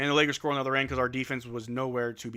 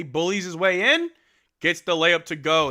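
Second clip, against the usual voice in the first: excited call; 5 semitones higher, 13 dB louder than usual. Real, not acted.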